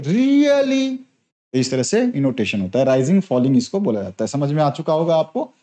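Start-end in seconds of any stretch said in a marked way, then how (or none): 0.0-1.0 Really? leaping much higher, then falling fast on ली; rise-fall tune. Shown as a demonstration. Teacher demonstrating rise-fall intonation on Really?. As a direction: swoop up high on Really? and drop. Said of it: "starting में आर ये बोल रहे हैं".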